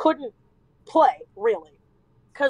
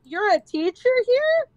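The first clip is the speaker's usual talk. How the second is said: suspicious grandma; 6 semitones higher than usual. Retold or imitated. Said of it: "looks me up and down".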